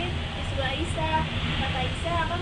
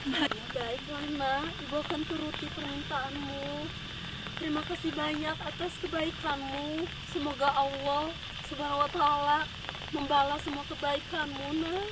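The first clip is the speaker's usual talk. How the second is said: weary resignation; 3 semitones lower, 5 dB quieter than usual. Acted. Exhausted mother accepts rest from the youth, softly weary. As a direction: give in tiredly.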